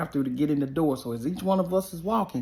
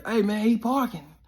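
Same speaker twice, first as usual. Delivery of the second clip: retold warning yell; 6 semitones higher than usual. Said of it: "teammates yell".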